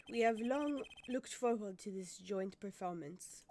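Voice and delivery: put-on French accent. Interpreter relaying the singer's words, French accent. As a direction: speak formally in a French accent. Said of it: "I have to do the French accent again".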